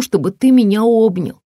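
pleading, breaking on the end. Acted. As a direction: voice cracks on the last word. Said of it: "На последнем слове её голос дрогнул". (голос дрожит)

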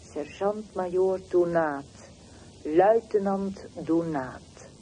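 loud, slow call of rank and name. Acted. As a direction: announce each rank loudly. Calling out the soldier's ranks.

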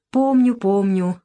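slow wistful remembering; sad smile. Acted. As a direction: smile sadly while recalling. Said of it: "грустно улыбнулся сын". (грустно улыбаясь, медленно)

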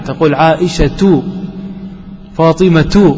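عائشة and فاطمة ending on a sounded -tu, slowly; voiced final taa. Shown as a demonstration. Teacher shows the class the moving taa, slow and careful. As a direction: pronounce عائشة as ʕaʔiʃatu and فاطمة as fatimatu, the final taa carrying a vowel. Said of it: "متحركة".

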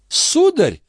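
put-on high outraged cry of an old concierge; indignant old woman. A narrator's reading. The concierge outraged at Marat's accusation, high indignant cry. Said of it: "возмутилась Греветта".

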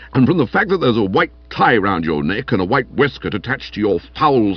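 indignant, disapproving accusation; morose. Acted. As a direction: glower through a moral reproach. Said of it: "said Stilton morosely".

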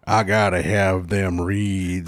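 slow, low monkey voice; deep voiced child. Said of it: "That's a low voice for a monkey".

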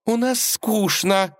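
high, slow, cutting reply; sharp retort. A narrator's reading. Princess retorting sharply to her father, high and slow. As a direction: snap it back at him. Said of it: "резко отозвалась Василиса".

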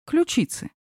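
Ключицы said high and playful; teasing repeat. Acted. Lev teasing Sophie about her collarbones. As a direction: tease her with the word.

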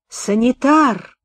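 drawn-out demanding call for the orderly; требовательный оклик. A narrator's reading. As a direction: call down the carriage, stretching the word. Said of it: "крикнул из вагона хрипловатый, требовательный голос". (требовательный протяжный окрик)

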